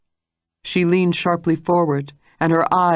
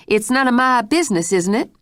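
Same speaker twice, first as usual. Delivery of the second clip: higher, mocking echo of her words; sarcastic retort; 8 semitones higher than usual. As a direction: throw her words back at her. Mrs Stitt retorts sarcastically.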